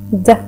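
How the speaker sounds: isolated "د" sound as a clear d; letter sound. Shown as a demonstration. Teacher sounding "د" for young pupils, crisp. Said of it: "سمعت أنا letter".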